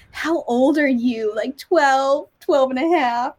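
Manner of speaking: put-on slow question as if to a child; patronizing customs lady. Customs lady guessing a traveler's age, patronizing. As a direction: imitate an adult guessing a youngster's age. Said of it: "And she's like".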